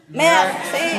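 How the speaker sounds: MERCI slowly, throaty R held before "si"; French R merci. Shown as a demonstration. Having learners say it again, slow French merci. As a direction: draw out both halves of merci. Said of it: "say it again".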